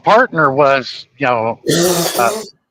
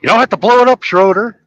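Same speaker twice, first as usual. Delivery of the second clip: imitating Indian accent; 8 semitones higher, 5 dB louder, faster than usual. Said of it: "he did it with an Indian accent".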